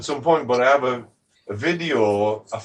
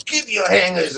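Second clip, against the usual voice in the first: put-on higher, forceful Russian-accented demand; 5 semitones higher, 4 dB louder than usual. Wife grabbing the hangers, imitated Russian accent. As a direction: imitate a Russian woman giving orders. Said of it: "Where are you from? Russia?".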